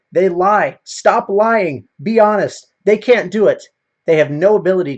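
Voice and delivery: loud rant. Real, not acted. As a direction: bark it out like a fed-up lecture. Ranting at liars, raised voice.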